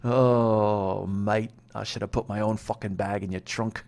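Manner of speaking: lightly voiced English guy complaining; understated English accent, muttered; mock angry English accent. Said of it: "I don't know what that accent was".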